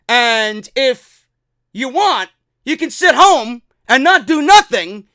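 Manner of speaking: hammed-up indignant refusal; mock angry boss. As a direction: act out a boss laying down punishment. Acting out Vince's angry reply to Harper.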